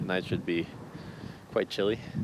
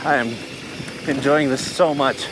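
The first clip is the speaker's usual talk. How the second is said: excited outdoor shouting; 7 semitones higher, 4 dB louder than usual. Real, not acted. Shouting on the bike ride.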